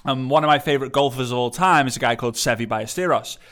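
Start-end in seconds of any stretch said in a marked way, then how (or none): 2.3-3.4 Ballesteros said Spanish-style, with a y for the double L; lightly Spanish "Ballesteros", the double L as y; Spanish accent. Shown as a demonstration. English golf fan naming a favourite golfer, Spanish accent. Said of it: "trying to use an English, uh, Spanish accent".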